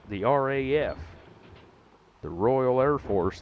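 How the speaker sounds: loud, slow, proud announcement. Acted. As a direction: boom it out with slow pride. Proudly spelling out RAF.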